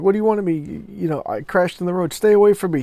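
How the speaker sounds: lightly acted woman backing away in fear; terrified. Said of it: "She's terrified".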